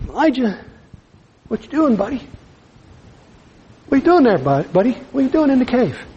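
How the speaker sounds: gentle voice of God. Acted. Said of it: "still, small voice".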